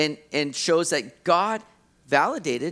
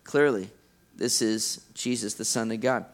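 awed realization; 8 semitones lower than usual. Retold or imitated. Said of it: "John's like".

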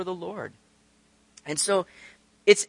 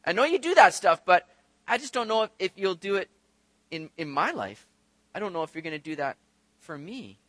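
discounting doubt. Retold or imitated. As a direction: trail away unsure it applies to you. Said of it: "do we just kind of discount it".

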